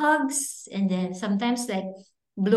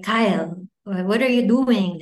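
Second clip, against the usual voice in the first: imitating dad's scold; 5 dB louder than usual.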